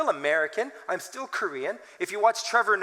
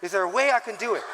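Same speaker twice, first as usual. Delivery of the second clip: fast, laughing self-question; faster than usual. Retold or imitated. Pastor laughing about looking humble to elders. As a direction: chuckle at the struggle. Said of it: "look more humble".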